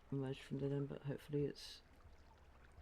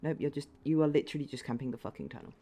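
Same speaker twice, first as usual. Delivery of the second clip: angry; 7 dB louder, faster than usual. Real, not acted. Raging at a camping enemy.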